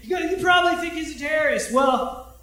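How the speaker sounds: high and loud, punchline slowed and shouted; imitating the comic outing his pastor; mock heckler shout. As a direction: land the reveal like a jab.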